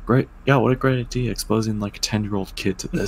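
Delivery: high, loud mock praise; sarcastic. Real, not acted. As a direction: scoff at the idea. Sarcastic comment on the story.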